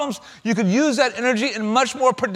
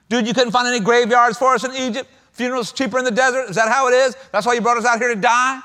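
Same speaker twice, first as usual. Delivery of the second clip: sarcastic paraphrase; 4 semitones higher than usual. Retold or imitated. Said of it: "listen to sarcasm in verse eleven".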